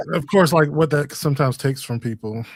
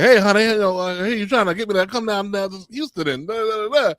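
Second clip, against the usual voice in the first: imitating Jennifer Lewis; 7 semitones higher, faster than usual. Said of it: "talking to Jennifer Lewis, like".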